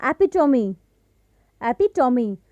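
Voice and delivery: एपिटोमी in four syllables, final "mee"; separate, careful एपिटोमी ending in "-omee"; correct pronunciation. Shown as a demonstration. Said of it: "जो इसका correct pronunciation होगा".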